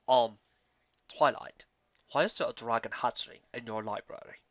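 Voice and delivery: a hint of the bewildered wizard; puzzled old stallion. Old unicorn, confused.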